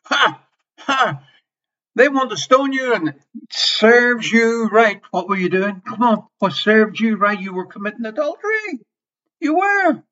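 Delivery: taunting sinner in a mock Pharisee voice; mocking gloat. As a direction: jeer at her like a graceless Pharisee. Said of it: "Jesus didn't talk like that".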